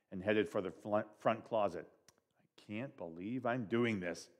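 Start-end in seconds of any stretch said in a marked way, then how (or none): 2.4-4.3 slow, soft unvoiced grumble; grumbling dad whispering to himself; muttered whisper. A narrator's reading. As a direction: whisper it under your breath, put-upon. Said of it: "he muttered".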